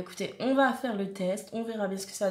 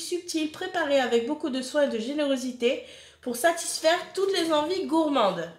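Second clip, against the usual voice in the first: lilting promotional reading voice; product blurb read-out; 3 semitones higher than usual. Acted. Reading a jam brand's pitch to viewers, advertising read-out.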